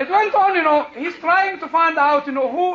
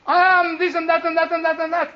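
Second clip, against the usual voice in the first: pompous boasting; 5 semitones higher, faster than usual. Retold or imitated. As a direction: reel off titles like a big shot. Celebrity reels off his titles.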